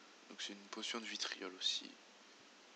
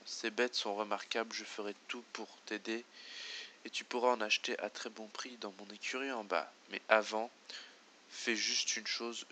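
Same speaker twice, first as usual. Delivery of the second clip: rustic villager voice; 5 dB louder than usual. Acted. Voices former farmer NPC.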